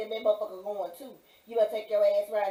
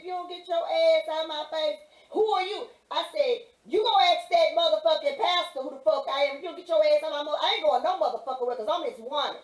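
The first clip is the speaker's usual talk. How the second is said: higher, louder cussing-out; retold angry shout; 6 semitones higher, 5 dB louder than usual. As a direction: tear into the guard at full volume.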